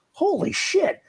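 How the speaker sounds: high, stunned gasp of awe; amazed. Retold or imitated. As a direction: react like you just heard genius. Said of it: "you're like".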